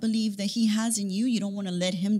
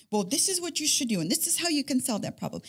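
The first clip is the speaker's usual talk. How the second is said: practical husband; 4 semitones higher, faster than usual. Retold or imitated. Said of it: "very realistic, practical man".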